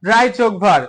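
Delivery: "ড্রাই যোগ ভার" in separate parts, joined by যোগ; split into syllables. Shown as a demonstration. Teacher giving a two-syllable example, split into syllables. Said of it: "যে ওয়ার্ডে দুইটি syllable থাকে".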